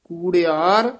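ਕੂੜਿਆਰ set apart, tune rising; brief break after ਕੂੜਿਆਰ. Shown as a demonstration. Teacher marking the short break, rising ਕੂੜਿਆਰ then pause. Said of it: "ਇੱਥੇ ਯਮਕ ਹੈ".

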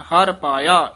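ਹਰ ਪਾਇਆ, then a clear pause; pause after phrase. Shown as a demonstration. Teacher showing the rest: a stop after ਹਰ ਪਾਇਆ. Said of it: "ਇੱਥੇ ਵਿਸਰਾਮ ਹੈ".

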